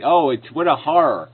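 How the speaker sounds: mock horror; sarcastic. Real, not acted. Debater mocking an opponent's objection to simplicity, sarcastic. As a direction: feign dismay at a trivial objection.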